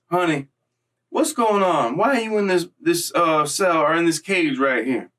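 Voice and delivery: concerned lady guard checking on an inmate, lightly voiced; kind lady. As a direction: imitate a sweet older lady asking what's wrong. Voicing kind black lady angel.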